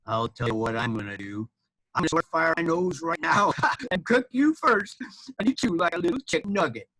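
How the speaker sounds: lightly voiced gloating dragon, building in pitch and force; storybook villain's threat; menacing dragon.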